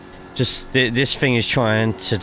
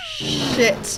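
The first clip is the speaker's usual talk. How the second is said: high-pitched shocked swear; shrieked curse. Real, not acted. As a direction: squeal it in horror. Crashes into the whole field.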